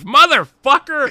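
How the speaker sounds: high, loud ecstatic shout; overjoyed outburst. Retold or imitated. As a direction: yell it out of sheer joy. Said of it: "he gets in the ring and he says".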